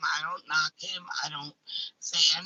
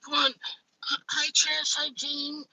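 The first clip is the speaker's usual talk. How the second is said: imitating her childhood self; 7 semitones higher than usual. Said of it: "as a kid, I used to be like".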